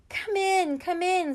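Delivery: put-on a headteacher brightly waving children in; cheery headteacher. A narrator's reading. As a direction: usher them in brightly.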